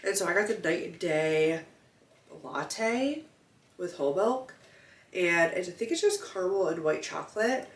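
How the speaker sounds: blocked nose, talking through congestion; stuffy nose. Real, not acted. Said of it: "I'm, like, so stuffy".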